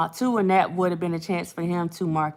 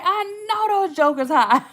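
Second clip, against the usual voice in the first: mock sympathy; 10 semitones higher than usual. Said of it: "I'm like".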